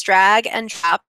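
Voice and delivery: "drag and drop" said as separate, careful words; deliberate separation. Real, not acted. Teacher explaining the interface, deliberately separating "drag and drop". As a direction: pull "drag" and "and" apart before "drop". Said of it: "I have to say that slowly".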